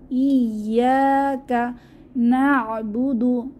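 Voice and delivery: slow chanted verse; tajweed reading; Quran recitation. Shown as a demonstration. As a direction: recite slowly with doubled ইয়া. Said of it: "তাহলে কিভাবে পড়ব".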